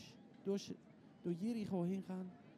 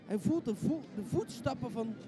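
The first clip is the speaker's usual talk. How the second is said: storyteller's voice climbing higher and louder as the crowd nears; building suspense; 7 semitones higher, 7 dB louder than usual. A narrator's reading. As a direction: build the tension toward the big moment. Tense story climax builds. (steeds spannender vertellen)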